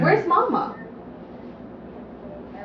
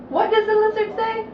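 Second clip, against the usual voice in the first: high sing-song; 10 semitones higher, 4 dB louder than usual. Shown as a demonstration. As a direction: question asked much higher. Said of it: "repeat brighter to toddler".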